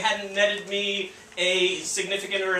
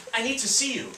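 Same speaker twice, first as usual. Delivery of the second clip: quick, higher-pitched urgent plea; retold disturbed caller, said in one go; 4 semitones higher than usual. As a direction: blurt it as a troubled caller. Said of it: "She sounded disturbed".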